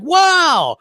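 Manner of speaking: high shouted wow; Hellhammer impression. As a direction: yelp it out in disbelief. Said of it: "And Hellhammer's like".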